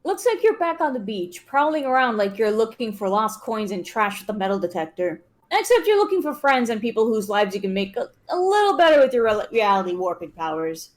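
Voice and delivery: reading game text aloud; story narration. Acted. Reads the game's narration.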